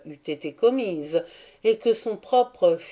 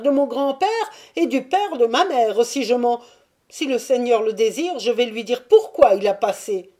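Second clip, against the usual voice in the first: higher, louder voice of the Jewish merchant piling up oaths; swearing Jew; 6 semitones higher, 7 dB louder than usual. Acted. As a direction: swear on every relative, pitch climbing. (le juif jure sur toute sa famille, voix haute et insistante)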